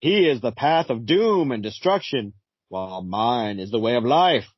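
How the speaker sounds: slow, solemn narrator of doom; Phantom Stranger voice. Acted. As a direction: intone it like a brooding spirit. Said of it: "you have a Phantom Stranger voice".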